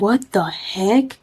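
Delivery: slow, drawn-out incredulous question; bug-eyed disbelief. Retold or imitated. Girlfriend staring at him with bugged-out eyes, stunned. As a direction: stretch it out in mock astonishment. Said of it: "my eyes are bugged out".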